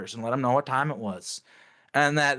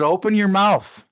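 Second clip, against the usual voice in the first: louder, slow, threatening command; slow menacing order; 8 semitones higher, 7 dB louder, slower than usual. Retold or imitated. To the ring's third guy, slow furious order. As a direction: force each word out slowly. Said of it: "I said".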